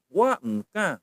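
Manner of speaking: wa mka with high falling wa; shown intonation. Shown as a demonstration. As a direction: start wa high, then a hummed m before ka. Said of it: "begitu intonasinya ya".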